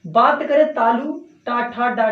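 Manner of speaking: टा ठा डा with the tongue curled back; retroflex demo. Shown as a demonstration. Teacher showing students retroflex टा, ठा, डा. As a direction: sound out टा, ठा, डा retroflex. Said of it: "मूर्धन्य से बोलते हैं".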